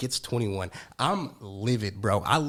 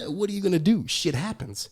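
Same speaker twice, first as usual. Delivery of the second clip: mocking shrug; 5 semitones higher than usual.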